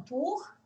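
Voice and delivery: "Tur" with the U said as a Norwegian U; careful "Tur" for learners; "Tur" com som de U; Norwegian U sound. Shown as a demonstration. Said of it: "tem som de U".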